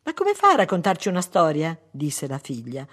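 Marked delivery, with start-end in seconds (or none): 0.0-1.8 put-on loud child's protest; little girl objecting. Daughter objecting to brother's request, loud childlike protest. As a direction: pipe up as a small daughter.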